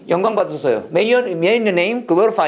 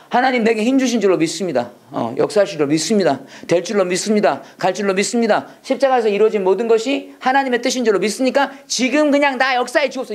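energizing confident prayer; 3 semitones higher than usual. Shown as a demonstration. Teacher showing students prayer that gives strength, emphatic confidence. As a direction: declare each belief with conviction. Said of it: "이게 힘이 나지".

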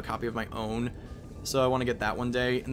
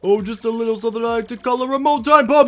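higher, louder cartoon villain voice; slow theatrical villain menace; 7 semitones higher, 12 dB louder, slower than usual. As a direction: ham up the gloating villain. Voices villain in game dialogue.

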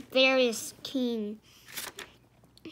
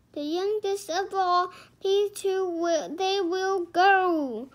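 high, loud proclamation; forceful decree; 6 semitones higher, 6 dB louder than usual. A narrator's reading. Knight choosing the two children, proclaiming loudly. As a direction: proclaim it, building toward GO.

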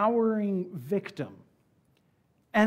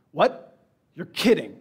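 surprised; 7 dB louder, slower than usual. Retold or imitated. Commander hears shocking news.

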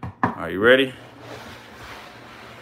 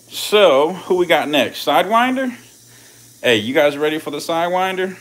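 hyped up; 7 semitones higher, 7 dB louder than usual. Real, not acted. Hyping the audience.

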